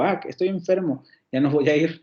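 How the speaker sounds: put-on a light glad "Ah" from a kid freed from school; happy exclamation. Shown as a demonstration. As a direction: sound pleased to be sick. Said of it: "pues estoy feliz y digo". (alegría ligera de niño que no irá a la escuela)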